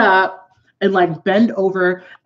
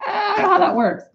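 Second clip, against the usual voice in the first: incredulous laugh; 12 semitones higher than usual. Real, not acted. Telling viewers Jay called her racist, laughing in disbelief. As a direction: laugh in disbelief at the absurd claim.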